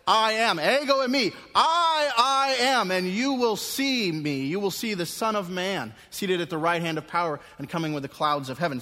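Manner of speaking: loud, high, ringing proclamation; powerful declaration. Acted. Jesus answering the high priest, loud and powerful. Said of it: "He gave a powerful answer there".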